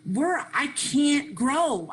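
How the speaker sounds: normal talking voice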